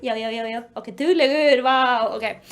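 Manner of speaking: low, soothing praise; praising a pet. Real, not acted. Vlogger praises Loki for coming, soothing. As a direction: murmur approval to an animal, pitched low.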